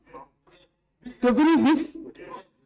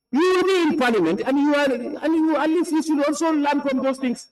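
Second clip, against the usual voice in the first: higher-pitched stern telling-off; scolding chair; 6 semitones higher than usual. Real, not acted. Chair scolds an unruly member in parliament, exasperated.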